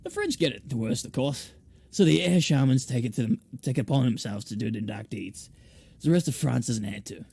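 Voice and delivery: lightly put-on French accent; measured French-accented shaman explaining. Curator explains the air shamans' burden to newcomer, French accent. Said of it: "I should probably give her a French accent".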